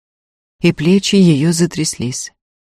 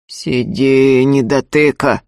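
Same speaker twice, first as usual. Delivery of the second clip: growled; 3 semitones lower, 4 dB louder, slower than usual. A narrator's reading. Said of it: "рыкнул Прокоп".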